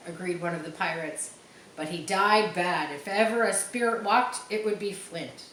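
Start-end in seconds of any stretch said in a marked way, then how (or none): 1.8-5.4 ominous pirate. Acted. Superstitious pirate warns about ghost.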